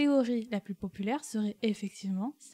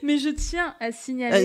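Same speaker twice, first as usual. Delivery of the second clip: scolding; 3 semitones higher, 7 dB louder than usual. Real, not acted. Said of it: "On dirait qu'elle nous engueule".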